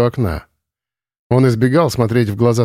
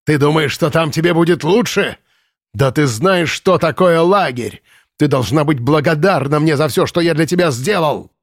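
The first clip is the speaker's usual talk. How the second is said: higher, scolding commandant; commandant's anger; 4 semitones higher than usual. Acted. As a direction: drive it home with contempt. Commandant berates captive. (комендант отчитывает пленницу, гневно)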